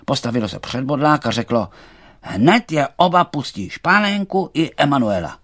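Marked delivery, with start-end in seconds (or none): 2.2-5.4 high, loud command; stern order. Acted. Ferdinand ordering the thistle to release both, loud and stern. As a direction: order it with no room for refusal.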